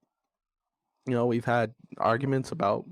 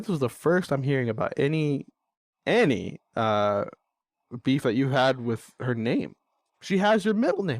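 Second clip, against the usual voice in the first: re-enacted co-parent argument, mildly heated; frustrated retort; 3 semitones higher than usual. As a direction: argue back, climbing in pitch as you go. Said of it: "I'm getting frustrated".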